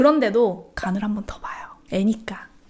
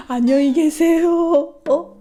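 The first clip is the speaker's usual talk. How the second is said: put-on higher, louder, slow little-kid voice; confused child; 6 semitones higher, 6 dB louder, much slower than usual. Mom imitating her son's wrong goodnight. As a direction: chirp it like a muddled toddler.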